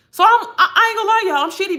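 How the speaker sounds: high laughing confession. Real, not acted. Admitting to viewers with a real laugh. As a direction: laugh through the admission. Laughing about her frustration.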